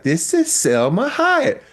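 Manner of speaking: slow, high breathy actress voice; slow and high, introducing herself; imitating Selma Hayek. Actress on the phone, slow high voice.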